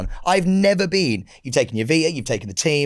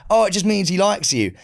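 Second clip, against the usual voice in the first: lightly voiced reassuring owner, higher pitch; dog owner; 5 semitones higher than usual. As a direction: imitate the owner explaining the dog away. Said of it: "The owner of the dog goes".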